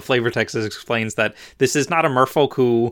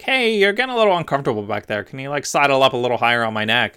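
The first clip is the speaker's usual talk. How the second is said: sly fox; faster than usual. Acted. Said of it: "the fox is like".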